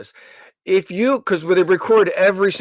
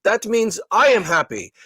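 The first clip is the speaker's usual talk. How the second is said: imitating a robotic call-centre agent, higher and half-whispered; mock customer-service robot, slow and pitched up; 4 semitones higher than usual. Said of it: "like a robot".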